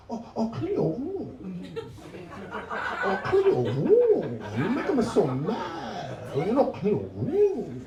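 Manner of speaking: high, swooping mock Asian accent, drawn out; exotic Asian-mom accent. Asian mom scolds child about the room, exotic singsong accent. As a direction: imitate an angry Asian mother's accent, melodiously high. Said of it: "when they get mad, it sounds exotic".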